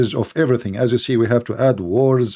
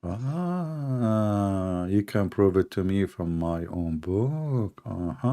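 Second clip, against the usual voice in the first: mock wonder; 3 semitones lower, 6 dB quieter, slower than usual. Real, not acted. Echoes opponent's claim back sceptically.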